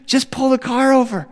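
high, urgent instruction; insistent wife. Acted. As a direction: cut through the chaos. Wife cuts through the meltdown.

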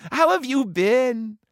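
high-pitched cooing question; high, gushing reunion voice; doting big sister. A narrator's reading. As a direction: fuss over your little brother. Sister greets long-lost brother.

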